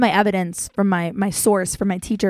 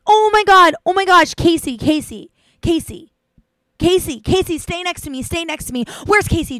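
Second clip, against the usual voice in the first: clingy guy; 7 semitones higher, 5 dB louder than usual. Retold or imitated. Clingy guy following her around.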